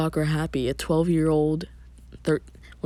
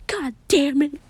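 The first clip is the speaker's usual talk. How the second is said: high, loud cries of despair; screaming; 12 semitones higher, 7 dB louder, slower than usual. A narrator's reading. Narrator voices a character begging for it to stop, screaming. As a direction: scream it out, pleading desperately. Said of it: "closes his eyes and screams".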